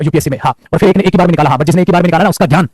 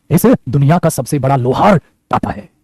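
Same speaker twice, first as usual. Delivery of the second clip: lower, very slow and spaced out; slow emphatic repeat; 4 semitones lower, much slower than usual. Shown as a demonstration. Teacher repeating a key line to students, slow and emphatic. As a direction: draw it out word by word, pitched down.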